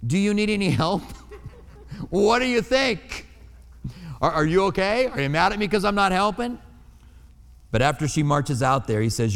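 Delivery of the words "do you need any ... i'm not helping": higher, meek offer of help over the kitchen noise; timid helper. Retold or imitated. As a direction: tiptoe in nervously and ask if you're in trouble. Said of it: "and you go".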